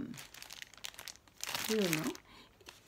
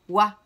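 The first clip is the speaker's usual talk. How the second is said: Oie lancé très fort en un coup; syllabe frappée; 11 dB louder than usual. Shown as a demonstration. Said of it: "frapper deux fois dans la main". (maîtresse qui scande Oie pour compter)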